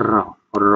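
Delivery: "র" said alone as a speech-sound example; demonstrated R sound. Shown as a demonstration. Teacher showing students the post-alveolar consonant, isolated "র". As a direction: sound out "র" separately, twice. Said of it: "এই টাইপের উচ্চারণ করবে".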